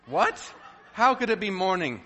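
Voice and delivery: high, loud mock dismay at the alarm clock; mock morning shock. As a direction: ham up waking in horror, half laughing.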